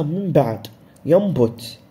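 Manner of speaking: "من بعد" with ن turned into an m sound before the ب; nun pronounced as mim. Shown as a demonstration. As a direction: say the ن in من بعد and ينبت as a م. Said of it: "تلفظ مثل الميم". (نطق النون ميمًا في «من بعد ينبت»)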